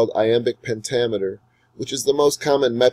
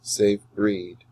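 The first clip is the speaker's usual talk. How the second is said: slow, measured reading with long pauses between lines; sonnet recital; slower than usual. Shown as a demonstration. Teacher reading Shakespeare aloud for students to follow the meter. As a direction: read the sonnet slowly so the iambs can be heard. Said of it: "Follow along carefully as I read Shakespeare's Sonnet twelve aloud".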